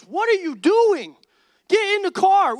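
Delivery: loud, slow disbelief turning to command; exasperated shout. Retold or imitated. Friend shouting at the dawdling roommate. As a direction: yell at him to get in.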